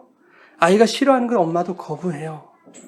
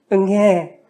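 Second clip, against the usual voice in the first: mock newborn wail, voice put on; imitated baby cry; much slower than usual. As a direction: imitate a baby's first "waah".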